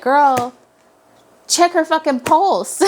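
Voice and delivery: laughing shout of frustration; exasperated yell. Retold or imitated. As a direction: yell at the character in disbelief. Her own reaction shouted at the character.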